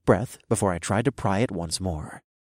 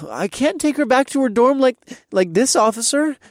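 high, slurring fake drunk voice; 5 dB louder than usual. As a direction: play the sloppy drunk girl. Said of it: "I lied through a hiccup".

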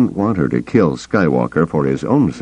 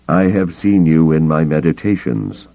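placid. Acted. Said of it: "the voice continued placidly".

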